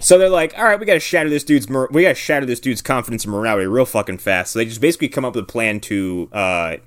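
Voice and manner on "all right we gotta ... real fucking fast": excited plotting. Retold or imitated. Warriors hatching a quick plan, hyped fast.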